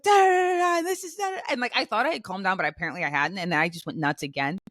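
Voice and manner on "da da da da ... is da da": high, loud mock ranting gibberish; mad rant. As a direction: rattle off a tirade in nonsense syllables. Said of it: "I got mad again".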